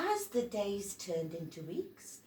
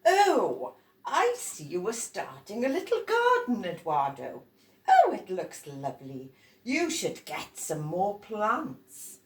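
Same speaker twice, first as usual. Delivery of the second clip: louder, pleased adult voice; delighted grown-up; 6 dB louder than usual. Acted. Adult praising Eduardo's garden, pleased and loud.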